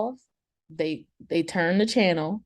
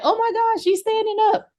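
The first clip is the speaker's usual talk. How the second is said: high, shocked mock voice; 14 semitones higher, 3 dB louder than usual. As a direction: gasp it out in a high mocking voice. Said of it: "they was like".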